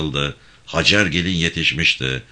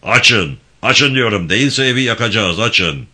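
threatening shout; 4 semitones higher, 5 dB louder than usual. Acted. Kapıya dayanmış kalabalık tehdit ediyor.

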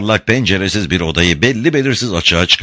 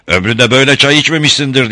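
higher, louder proud shout; coşkulu bağırış; 6 semitones higher, 4 dB louder than usual. A narrator's reading. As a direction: boast about the tea, loud and pleased. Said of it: "diye bağırdı". (övünerek yüksek sesle)

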